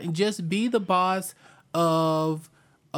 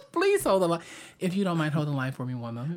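call center voice; much faster than usual. Retold or imitated. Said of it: "turns it on for the call center jobs".

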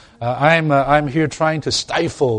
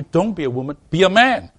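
sharp, higher mocking voice; mock quote shouted high; 5 semitones higher than usual. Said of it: "They're telling you".

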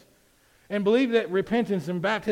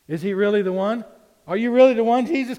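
anguished plea; 4 semitones higher, 10 dB louder than usual. Acted. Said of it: "And he's like".

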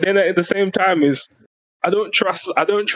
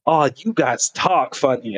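slow, lightly mocking American accent; put-on American voice; slower than usual. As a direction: imitate an American visitor, drawing the words out. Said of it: "that's my default American accent".

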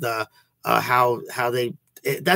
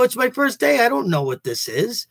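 flustered protest; 11 semitones higher than usual. Retold or imitated. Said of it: "I go".

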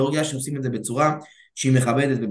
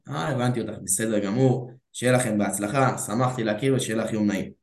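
relaxed, friendly and unbothered; calm smiling reply; 4 semitones lower than usual. Retold or imitated. He answers the girl's "I have a boyfriend" calmly, smiling. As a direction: let her go with an easy smile. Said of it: "מחייך, רגוע".

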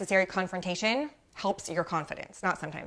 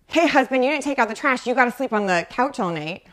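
louder, lightly acted scolding; mock anger; 3 semitones higher, 4 dB louder than usual. Wife to husband about the trash, mock angry. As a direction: lay down the law in mild mock anger. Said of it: "That's just anger and hurting a relationship".

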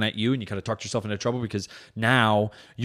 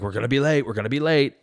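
slightly raised, repeated nag; nagging; 4 semitones higher than usual. Retold or imitated. Husband hurrying the family out, nagging. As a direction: imitate fretting at a partner about the time. Nagging partner about being late, retold.

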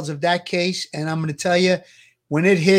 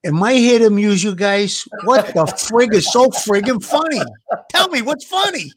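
tough Brooklyn wiseguy, mock offended; brooklyn accent; 3 semitones higher, 3 dB louder than usual. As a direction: Brooklyn accent, rising into a challenge. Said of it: "he's got that Brooklyn accent".

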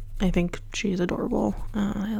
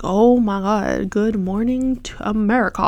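excited greeting; 4 dB louder than usual. Pretend. Greeting the day with lamp on.

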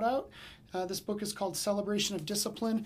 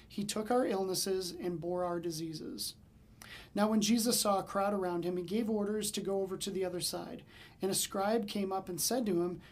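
scripture reading. Acted. Reads Matthew passage aloud.

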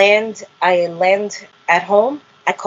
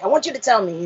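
lightly imitating dad's accent; a hint of Dad's accented insistence; father's accent; 3 semitones higher, 4 dB quieter, faster than usual. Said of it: "he has an accent".

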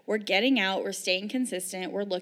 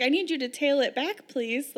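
mock polite demand; 5 semitones higher, 3 dB louder than usual. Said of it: "I was like".

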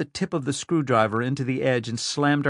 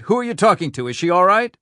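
loud, higher frantic questions; frantic demand; 7 semitones higher, 7 dB louder than usual. Acted. Rhyme presses his aide for news of Amelia. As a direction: press him hard for news.

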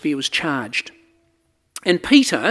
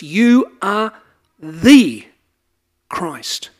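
every word weighted, "You are the Christ"; triple emphasis; 6 dB louder, much slower than usual. Shown as a demonstration. Preacher showing Greek emphasis, each word stressed. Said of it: "here we have a triple emphasis".

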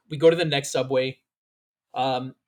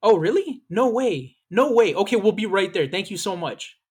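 excited phone call; 5 semitones higher than usual. Retold or imitated. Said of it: "and she's like".

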